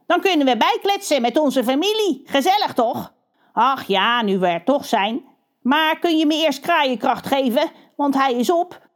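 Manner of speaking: a cheeky crow coaxing his brother. Acted.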